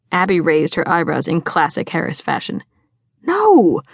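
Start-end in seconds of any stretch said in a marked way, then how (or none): 3.2-3.8 high, loud, scandalized no; emphatic dismissal. A narrator's reading. Friend correcting a mistaken guess about a crush, emphatic. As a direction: shoot the idea down.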